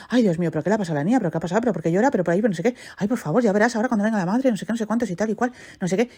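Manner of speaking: rattling off worried questions, rushed; a father fretting aloud, racing through it; panicky father, fast. Retold or imitated. Father panicking over the crying girl, quick and breathless. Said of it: "el padre se empezó a poner nervioso".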